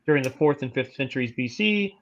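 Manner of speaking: even, measured encyclopedia read; steady informational narration; reading aloud. Real, not acted. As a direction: read the article out formally. Reads an article aloud.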